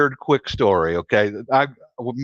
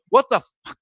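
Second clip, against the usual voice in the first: much higher stunned cry; shocked disbelief; 12 semitones higher, faster than usual. Retold or imitated. Ladyboy realizing the Frenchman speaks English, much higher stunned cry. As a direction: blurt in total shock. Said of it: "he had one of those".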